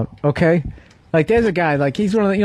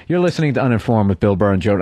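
much lower radio intro read; deep announcer voice; 7 semitones lower than usual. Shown as a demonstration. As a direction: drop the voice low, like a show announcer. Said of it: "Let me listen to".

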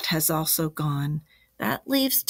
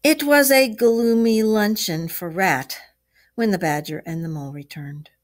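story narration; 5 dB louder than usual. A narrator's reading. Narrator opens the gloomy luncheon scene, storytelling.

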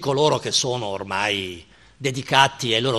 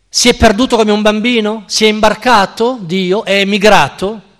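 fast, higher, louder jeering questions; mocking shouts; 5 semitones higher, 5 dB louder than usual. A narrator's reading. Traders in the market shout mockery at the madman, jeering. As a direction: hurl the jokes at him, laughing at him.

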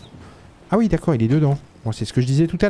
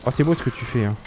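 compliment ironique, un peu plus bas; félicite-le avec ironie; sarcastique; 2 semitones lower than usual. Real, not acted. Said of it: "une forme de sarcasme". (ton sarcastique)

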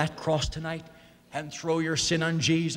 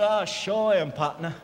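put-on joking "New Jersey" accent. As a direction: imitate a Texan GI's accent for a joke. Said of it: "I immediately detected that New Jersey accent".

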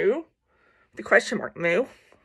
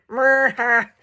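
eerie mooing chuckle; a spooky cow laugh; a hint of a creepy cow; much slower than usual. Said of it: "that was creepy".

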